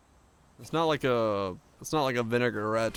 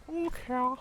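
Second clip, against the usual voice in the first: Cork here squeaked up much higher in a put-on voice; high mock voice. Shown as a demonstration. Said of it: "You're in Cork".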